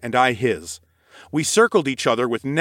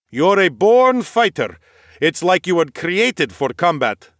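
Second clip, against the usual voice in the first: slow, higher, glowing praise; admiring noble swordsman; 5 semitones higher, 4 dB louder than usual. Acted. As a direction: praise like an eager knight. Nikolaus voiced in story.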